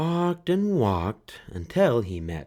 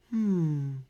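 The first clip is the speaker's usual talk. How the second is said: relieved mother; 9 semitones higher than usual. A narrator's reading. Mother finds Franklin, high and relieved. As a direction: sigh it out in relief. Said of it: "she said".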